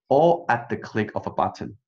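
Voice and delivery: brief break placed before all; tiny pause before all. Shown as a demonstration. Teacher shows a tiny pause before all. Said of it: "在all的前面呢，我们可以有个tiny pause".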